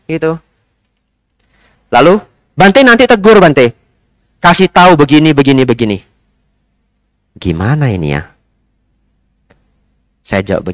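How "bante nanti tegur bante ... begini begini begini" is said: high, pushy instructions; bossy order. Retold or imitated. Young man again orders the monk to scold, high.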